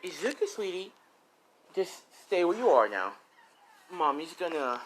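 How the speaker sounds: sweet-talking mama, a bit put on; sugary mother. Mother voiced talking to her child.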